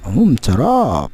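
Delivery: slow, drawn-out mm of delight; slow savouring. Real, not acted. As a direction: linger over the taste. Savouring balut bite.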